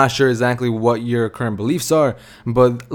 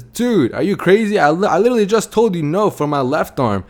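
higher-pitched, acted disbelief; incredulous protest; 6 semitones higher than usual. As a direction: imitate a cobbler balking at an outrageous offer. Cobbler incredulous at second offer.

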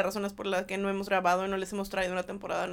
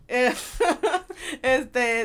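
laughing; 4 dB louder than usual. Real, not acted. Laughing mid disclaimer.

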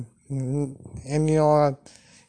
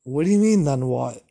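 surprised retort; 3 dB louder than usual. Retold or imitated. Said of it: "I'm like".

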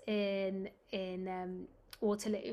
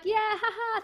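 awkward laugh; 11 semitones higher, 3 dB louder than usual. Retold or imitated. Fake cheerful reply, awkward.

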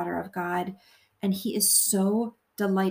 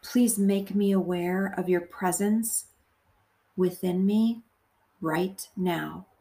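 measured meditation voice, phrase by phrase; guided prayer. Acted. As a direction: pray gently and deliberately, leaving long pauses to repeat.

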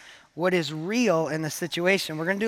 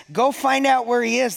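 king's command; 5 semitones higher, 3 dB louder than usual. Acted. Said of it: "the king said".

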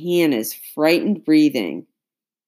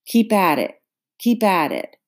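urging shout; 5 semitones higher than usual. A narrator's reading. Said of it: "Beckworth shouted".

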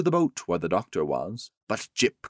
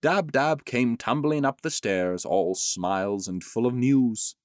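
ordinary delivery, nothing marked

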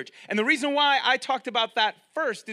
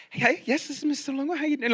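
lightly imitated polite phone greeting; customer service voice; 4 semitones higher, faster than usual. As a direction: answer the phone all sweet and professional. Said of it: "it's this different customer service voice".

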